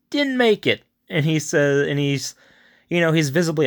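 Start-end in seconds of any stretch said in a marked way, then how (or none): 0.1-0.8 mock blunt news. Delivering news of death.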